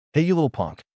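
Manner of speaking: put-on rough taunt at the kid; angry. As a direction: sneer it at the little kid. Brother bullying a small boy.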